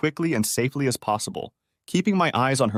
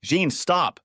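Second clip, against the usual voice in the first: firm shout; 7 semitones higher than usual. A narrator's reading. Husband stops her.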